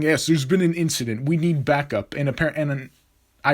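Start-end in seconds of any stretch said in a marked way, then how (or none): 0.0-2.1 lightly put-on dumb official voice; a hint of a goofy formal phone voice. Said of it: "a dumb voice to try to calm myself".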